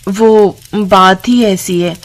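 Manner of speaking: slow, hesitant, mildly gloomy; reluctantly hint at a trouble, slowly; downcast sister-in-law. Acted. Sister-in-law begins explaining the money problem, downcast. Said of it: "Supriya उदास चेहरा लेकर".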